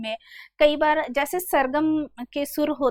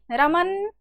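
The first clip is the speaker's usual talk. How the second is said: calling a bit louder; 2 semitones lower, slower than usual. Shown as a demonstration. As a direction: raise the voice a little to call a friend. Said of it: "आवाज लगाएगा थोड़ा जोर से".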